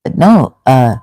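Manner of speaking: ordinary talk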